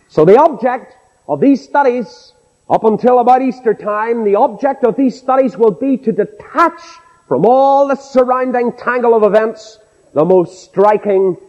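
high-pitched pulpit delivery. Acted. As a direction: announce the theme like a preacher.

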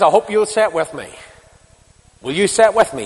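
loud, high, ringing proclamation; Paul's rallying call. Acted. Preacher voicing Paul, calling the church to answer loudly. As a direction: call it out to the whole hall.

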